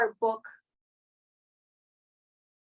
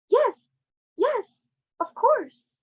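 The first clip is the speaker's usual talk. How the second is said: gushing yes; 9 semitones higher, much slower than usual. Acted. Gushing acceptance on the phone.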